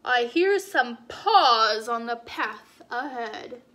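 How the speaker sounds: big beast noticing something; wary Gruffalo. Acted. Gruffalo hears fox.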